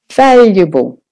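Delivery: "valuable" with a strong first syllable; stress on VAL. Shown as a demonstration. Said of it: "make louder and longer".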